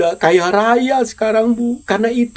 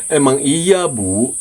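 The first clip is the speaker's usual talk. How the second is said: a lower, faster put-on voice playing the sulking activist; mock confession of a grudge, lower and faster; mock opponent voice; 7 semitones lower than usual. Pretends to be the opponent.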